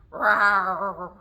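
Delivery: bear growl. Shown as a demonstration. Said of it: "And bears growling".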